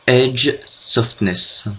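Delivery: "Edge softness" read slowly in a heavy French accent, /ɛʒ sɔftnɛs/; French-accented English. Real, not acted. Tutorial host reads an English effect name aloud, slow French accent. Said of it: "Désolé pour mon accent déplorable".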